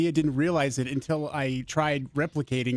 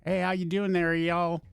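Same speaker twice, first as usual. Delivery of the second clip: higher-pitched, friendly Southern greeting; mock Southerner saying hello; Southern accent; 5 semitones higher than usual. Shown as a demonstration. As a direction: put on a folksy Southern twang. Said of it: "How about Southern then".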